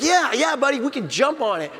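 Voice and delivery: a dad playing along with his son; playful dad. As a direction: hype the kid up.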